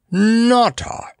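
very high, drawn-out, falling echo; coughed astonishment. A narrator's reading. Mustafa opening his eyes wide, coughing out astonishment. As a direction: repeat the name in amazed disbelief. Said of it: "coughed Mustafa".

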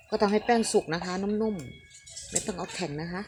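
slow, drawn-out instruction with a rising end; slow explaining. Shown as a demonstration. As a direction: spell out each word slowly for the viewers.

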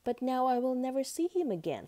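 lightly acted storybook dismay; lamenting lamb. A narrator's reading. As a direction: wail mildly as the little lamb. Lamb laments lost butterfly to mother.

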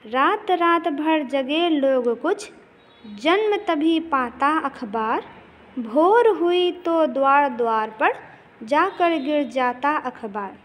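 slow, measured recital of a verse; steady classroom poem reading; poem recitation. Acted. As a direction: recite the lines to the class with rhythm. Teacher recites poem stanza.

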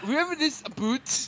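quick, hammed-up Canadian accent; mock Canadian accent on the guide. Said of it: "Just give him a Canadian accent".

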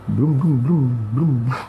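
playful motorbike revving imitation; Harley Davidson engine noise. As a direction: rev it like a big motorbike. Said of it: "Harley Davidson".

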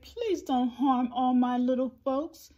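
high, pleading elephant; begging. A narrator's reading. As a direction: plead earnestly for the little ones. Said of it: "And he begged".

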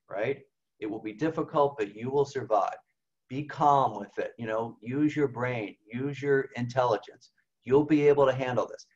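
lightly voiced gentle reassurance; calm reassuring voice. The good spirit reassuring someone through the pandemic, mildly calm. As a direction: speak it like a steady hand on the shoulder. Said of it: "You see how calm that sounds?".

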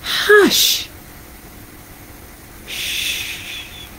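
unvoiced shushing hush; whispered hush. Mother whispering hush to the animals.

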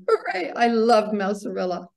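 lightly voiced excited little dancer; mild mock shout. A narrator's reading. Henry cheers the chosen ballet, mild excited shout. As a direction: cheer it without really shouting. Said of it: "Henry shouted".

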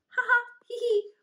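high, loud spoken giggle; giggling. Acted. Wolf Cub giggling at the tickle, high and loud. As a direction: giggle as if your tongue is tickled. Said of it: "tried to stop giggling".

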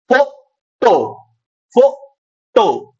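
"फोटो" very slowly, split as फो... टो; syllable stress demo. Shown as a demonstration. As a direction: stretch "फोटो" into two emphatic, separate syllables. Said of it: "अब जैसे फोटो बोल के देखो". ("फोटो" को धीरे-धीरे, अक्षर तोड़कर, ज़ोर दिखाते हुए)

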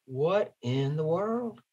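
soft, puzzled under the breath; a quiet baffled what in the world; bewildered aside. Retold or imitated. Car dealer baffled when the car stops, softly puzzled. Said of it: "and Wimpy's like".

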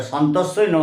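সন্তস্যই said crisply as "shon-to-shoi"; correct pronunciation. Shown as a demonstration. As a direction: demonstrate সন্তস্যই clearly. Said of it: "বলতে হবে".

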